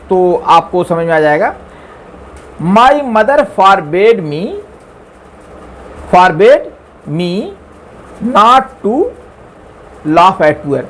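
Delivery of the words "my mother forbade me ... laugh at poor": slow dictation. Shown as a demonstration. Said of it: "अब देखिए क्यों आया".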